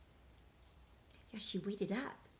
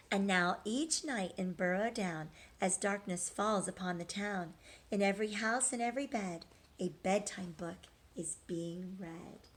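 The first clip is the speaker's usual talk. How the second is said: rhythmic storybook read-aloud; reading to children; 3 semitones lower than usual. A narrator's reading. Teacher reading a rhyming picture book to children, sing-song. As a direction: read the rhymes to the class, lilting.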